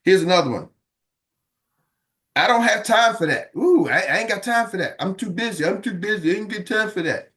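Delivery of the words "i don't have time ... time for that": lightly imitated, put-upon complaining; a hint of a busy person brushing you off; grumbling a lazy excuse you shouldn't make; mock whiny excuse. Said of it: "That's not how business owners talk".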